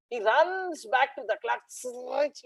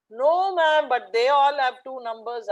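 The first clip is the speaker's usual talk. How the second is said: put-on child's whine; 2 semitones higher, 4 dB louder than usual. Boy complains to his teacher.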